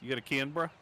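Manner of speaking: lightly voiced surfer dude, rising question; a hint of surfer dude asking for a 'bruh'. Player joking about the city name, light surfer-dude impression. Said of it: "a surfer dude would ask".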